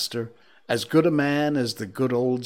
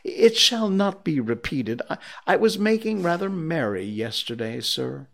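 higher-pitched, faltering excuse; pleading; 5 semitones higher than usual. Acted. Late clerk promises his boss, pleading. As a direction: stammer out a meek promise. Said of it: "pleaded Bob".

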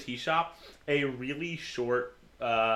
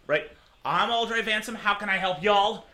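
bad raspy voice; 6 semitones higher, 5 dB louder than usual. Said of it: "me doing a bad job at trying to get a certain rasp".

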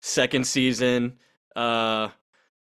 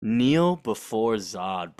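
slow theatrical villain menace; 4 semitones lower, much slower than usual. Retold or imitated. Quoting Zod's famous villain line.

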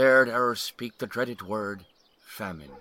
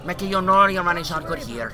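friendly barman; 8 semitones higher, 4 dB louder than usual. Acted. Barman Emmett voice.

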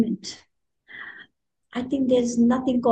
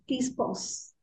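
hushed, much softer aside; soft request; 10 dB quieter than usual. Acted. Ellipsis asking the reader to pause, softly. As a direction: drop the volume right down.

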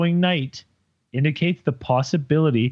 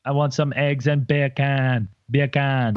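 mock Jamaican accent. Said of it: "One more time".

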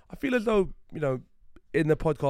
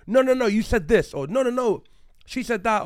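mock arguing; 8 semitones higher, 6 dB louder than usual. Acted quarrel example.

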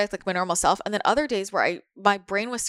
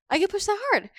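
"I get pushed that hard" repeated much higher, leaning on "that"; emphatic repeat; 12 semitones higher than usual. Real, not acted. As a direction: echo the line up high in disbelief. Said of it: "Like, I get pushed that hard".

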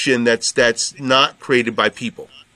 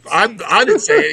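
1 mock defensive; 8 semitones higher than usual. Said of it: "So I was like".

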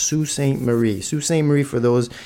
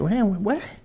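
Italian grandpa outraged; 6 semitones higher than usual. Retold or imitated. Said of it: "He said".

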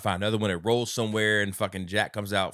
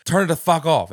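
imitating a furious driver, louder and higher; mock yell at Jack; angry yell; 5 semitones higher, 7 dB louder than usual. Retelling Jan yelling at Jack to kill the music. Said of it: "now he's embarrassed".

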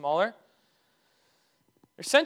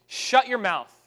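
higher, punched command; harsh rebuke; 4 semitones higher, 4 dB louder, slower than usual. Retold or imitated. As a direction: order someone silent, sternly. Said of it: "Jesus responds harshly".

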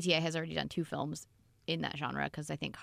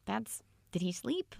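whispering; 3 semitones higher, slower than usual. Real, not acted. Stunned aside about banana binge.

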